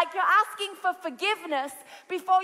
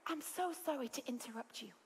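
hushed apology; 5 semitones lower, 14 dB quieter than usual. Retold or imitated. Polite friend reporting fire, hushed.

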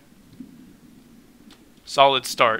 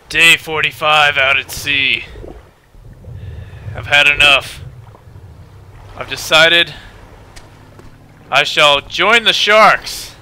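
slow, louder mock-solemn declaration; grim castaway log; 5 dB louder, slower than usual. A castaway's mock diary, slow grim declaration. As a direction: announce it like a doomed sailor.

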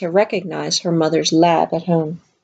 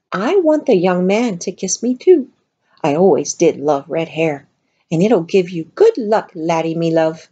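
lightly voiced cheery medium. Medium's flirty voice.

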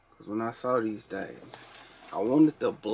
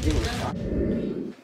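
squeaky high imitation; high mimic; 11 semitones higher, 5 dB louder, much slower than usual. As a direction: echo it in a high voice. Repeats child's words in high voice.

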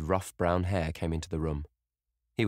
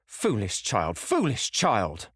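repeated by rote, second time slower and higher; mother parroting a scolding phrase; 4 semitones higher, 3 dB louder, slower than usual. A narrator's reading. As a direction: mechanical scolding repetition. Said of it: "the parrot phrase".

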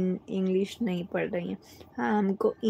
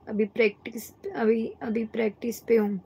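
whispering; faster than usual. Real, not acted. Shy aside about practising.

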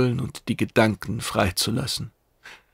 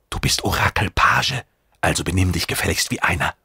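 menacing whisper. Acted. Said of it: "ließ ihn einer der Trostreichen wissen".

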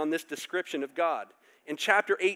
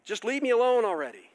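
exasperated sigh; 6 semitones higher, 6 dB louder than usual. Retold or imitated. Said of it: "who's like".

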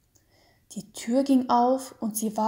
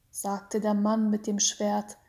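usual speaking voice

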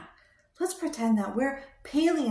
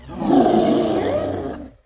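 higher, louder excited question; 9 semitones higher, 10 dB louder, slower than usual. Pretend. Asking a child about the roar, excited. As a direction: burst out with pretend alarm.

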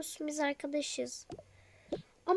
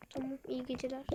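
whisper; 2 semitones lower, 7 dB quieter, faster than usual. Acted. Saying goodnight at bedtime.

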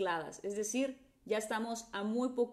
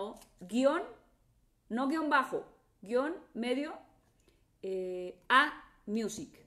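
slow dictation; slower than usual. Shown as a demonstration. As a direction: spell out A Music for the viewer. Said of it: "te lo voy a repetir". (dictando A Music despacio y claro)

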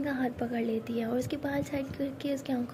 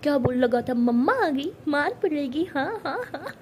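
teasing; 3 semitones higher than usual. Acted. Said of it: "ज़ोर से हंसते हुए कहती".

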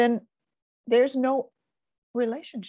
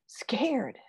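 whispered word. Real, not acted. Naming a stressful feeling.

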